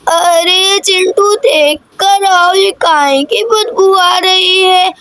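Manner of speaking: slow, drawn-out grandmother's voice; slow old granny. Acted. Granny calling Chintu about the bad smell, slow and drawn out. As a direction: stretch each word like a fussing old granny.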